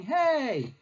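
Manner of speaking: high, plaintive cry for mother; hammed-up helpless calling out, pitched high; mock yelling for help. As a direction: wail for rescue like a bullied child. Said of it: "He's basically yelling".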